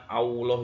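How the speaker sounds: "Allah" said as "Auloh"; lam turned to waw. Shown as a demonstration. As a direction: show the W-sound mistake in "Allah".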